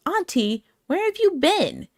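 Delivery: put-on high, eager little girl asking auntie; excited niece. Niece greeting her aunt, high excited child voice.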